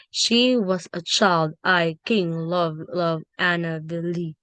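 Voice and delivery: put-on "She was a child, I, king, love, love, Annabel Lee" with stressed words picked out; emphasised words. Shown as a demonstration. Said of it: "What do you give emphasis?".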